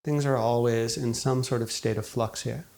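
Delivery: calm, unhurried meditation guide, long pauses between phrases; guided meditation. Acted. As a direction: gently guide listeners into settling, leaving space after each thought. Leads a guided meditation after intro.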